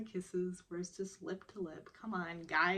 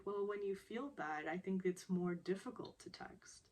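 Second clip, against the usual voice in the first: softly reassuring, a bit quieter; gentle, softer; 4 dB quieter than usual. Retold or imitated. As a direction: ease it out gently like comforting a friend. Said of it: "Juhi very gently sort of says".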